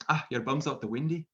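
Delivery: Scotsman. Retold or imitated. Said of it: "a Scotsman would just go walk up to you and say".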